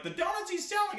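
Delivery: put-on high squeaky kid voice; tattling kid. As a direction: tell on him like a little kid. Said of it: "they're like".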